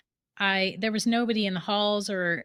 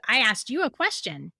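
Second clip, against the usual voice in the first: robot voice. Retold or imitated. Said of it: "like, in the robot voice".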